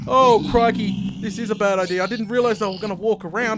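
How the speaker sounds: high, loud panicked shrieks of real alarm; panicked screaming. Real, not acted. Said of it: "Screaming like a girl right there".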